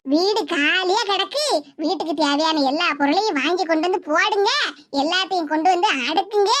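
imitating the daughter. Mother quoting her daughter's demands to her friend, lightly mocking. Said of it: "அப்படின்னு தான் எங்ககிட்ட வந்து சொல்ல வந்தா".

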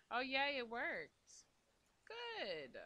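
high, loud laughing cheer; real delight as the crafting works. Real, not acted. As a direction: squeal with relief that it worked. Crafting finally succeeds.

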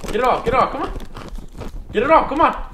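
high, loud cheering on; loud urging. Real, not acted. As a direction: shout him on to finish. Friend cheering him on.

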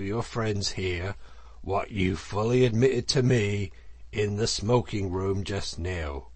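lightly voiced stern elder seeking a confession; solemn Badger. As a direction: press gravely, point by point.

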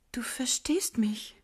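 hushed and slow, just for him; whisper. Acted. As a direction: whisper it close to his ear. Intimate talk with imagined Gottfried.

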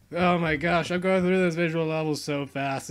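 quick, bright burst of glee; excited. Real, not acted. Gamer bragging to viewers, excited and fast. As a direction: gush over your own speed. Excited about speedrunning the game.

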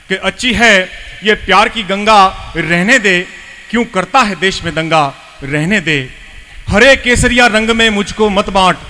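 emphatic verse, rising then dropping to refrain; poem recitation. Acted. Host appealing for communal harmony, reciting. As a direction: declaim the plea with deliberate pauses.

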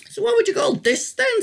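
gently quizzing grandfather; lightly voiced old man. A narrator's reading. Grandfather teasing the boy with a riddle, lightly voiced.

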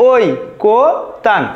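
ওই কো তান spaced out with pauses between syllables. Shown as a demonstration. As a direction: break it up as "oi, ko, tan". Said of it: "ঐকতানের সঠিক উচ্চারণ হয়ে যাবে".

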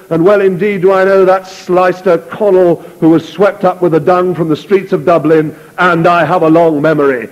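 name each man as a threat; menacing officer. Acted. Butler threatens the sergeants.

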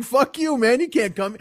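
high, mock-angry rejection; acted indignant dismissal; defiant rebuff. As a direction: turn them away indignantly. Knees rebuff the cancer.

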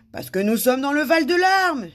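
high, loud wail; moaning. A narrator's reading. King explains his rule to a visitor, moaning. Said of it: "gémit le roi".

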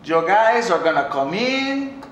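low mock German accent. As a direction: drag out Schmidt's German accent. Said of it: "He, he says".

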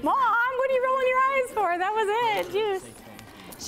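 high, playful kid voice put on by mom; child's voice. Mom voicing her child at snack time, high and playful. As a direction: pretend to be the kid answering back.

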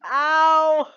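sharp high yells of pain; yelp of pain. Real, not acted. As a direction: cry out after falling. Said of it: "I fell out of my chair".

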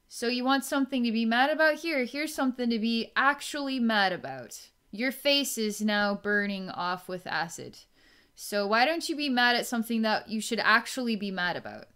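mock yelling. To the angry person, a fast mock telling-off. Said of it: "I point and yell at him".

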